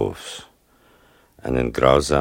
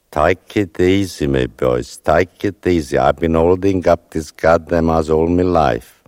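raised, louder voice calling up to the rescuers; louder call from under the rubble, steadying the boys; 4 semitones higher, 5 dB louder than usual. Retold or imitated. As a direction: call out to the diggers, urging them to stay calm. Trapped woman calling to rescuers.

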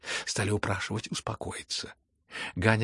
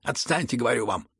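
exasperated shouting; 8 dB louder than usual. A narrator's reading. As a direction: shout him down, fed up. Exasperated son shouts his father down.

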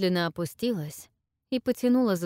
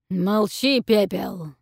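commanding dragon; 6 dB louder, slower than usual. A narrator's reading. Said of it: "приказал дракон".

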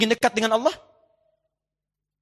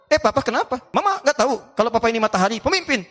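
mock quarrel; 5 semitones higher, faster than usual. Acted couple quarrel, comic.

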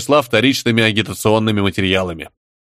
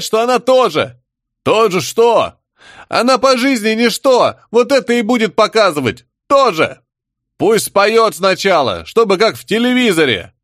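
a touch higher, jeering taunt; mocking savage; 10 semitones higher than usual. Rowdy savages taunting Soplya, lightly voiced jeering. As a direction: jeer at the girl like a rowdy tribesman.

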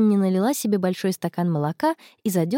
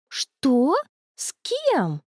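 sudden, much higher squeak of surprise; blurted surprise; 5 semitones higher, much slower than usual. A narrator's reading. Connie blurts out to Anna about the date, shocked. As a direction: blurt it out, caught off guard. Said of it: "выпалила Конни".

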